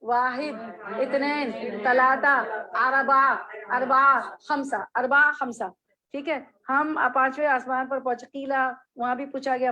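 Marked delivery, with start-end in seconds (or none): 0.0-5.7 each number slow and apart with long pauses; "वाहिद ... इत्नैन तलाता ... अरबा खमसा" spaced out word by word; slow counting drill. Shown as a demonstration. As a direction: count out slowly for students to repeat. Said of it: "बोले".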